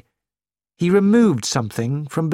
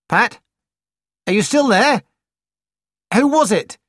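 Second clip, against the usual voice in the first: worried; 8 semitones higher, 4 dB louder than usual. A narrator's reading. Caller cut off mid-sentence.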